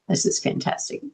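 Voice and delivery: whispered echo of the praise. Real, not acted. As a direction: repeat it in a hushed breath.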